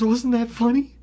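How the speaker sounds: loud, high, delighted question; gleeful. Retold or imitated. Friend in the car after his prank, gleeful. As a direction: crow it loudly, pleased with the prank.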